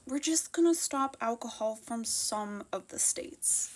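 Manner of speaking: hushed, breathy whisper, as if it were a silly secret; mock whisper of premier. Vlogger mimics Premier Eby's plan in a mocking whisper. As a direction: whisper his words to make them sound feeble.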